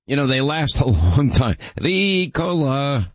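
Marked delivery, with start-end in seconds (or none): 1.8-3.1 slow, drawn-out jingle-style Ricola; Ricola ad call. Retold or imitated. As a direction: stretch it like the ad. Imitating the Ricola cough drop ad.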